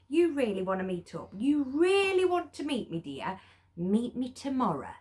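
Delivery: sceptical knowing tone. Retold or imitated. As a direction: play it knowingly skeptical. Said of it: "Every woman knows this face going".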